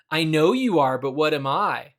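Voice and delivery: mild playground taunt; childish taunt. Retold or imitated. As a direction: tease like a kid, lightly. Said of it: "with the same tone as".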